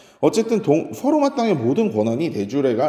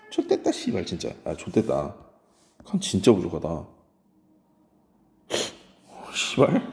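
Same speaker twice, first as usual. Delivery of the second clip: cursing under breath; 7 semitones lower, 6 dB quieter than usual. Real, not acted. Cursing at the board.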